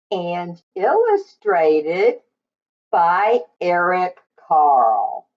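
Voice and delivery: put-on bright, sing-song storytime voice for little kids; cheerful read-aloud to young listeners; reading to children. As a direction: greet the class like a kindergarten teacher.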